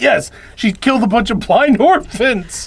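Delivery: excited, thrilled, high-pitched voice. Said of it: "Igor's excited".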